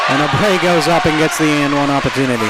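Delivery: rising excited call; excited play-by-play. Real, not acted. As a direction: call the and-one with energy. Live call of a big play.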